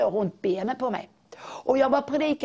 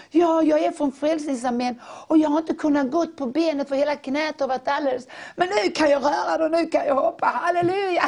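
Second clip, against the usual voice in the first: quoted Salvation Army woman, rising high and joyful; excited healed woman; 5 semitones higher than usual. Retold or imitated. Woman tells the pastor her knee is healed, jubilant and high. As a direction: burst out with joy that the knee works.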